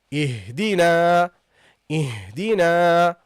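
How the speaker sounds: اهدنا with a long, held final a; slow recited اهدنا, final a sustained; prolonged fatha. Shown as a demonstration. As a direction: draw out the last vowel of اهدنا, low and level. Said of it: "prolongs normally the sound of the fatha".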